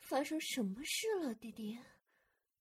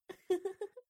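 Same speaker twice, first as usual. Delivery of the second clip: teasing giggle; 6 semitones higher, 4 dB louder than usual. Acted. Teasing laugh at brother.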